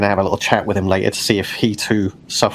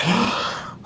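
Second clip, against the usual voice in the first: deep gasp; 10 semitones higher, 7 dB quieter than usual. Retold or imitated. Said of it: "deep inhalation to be like".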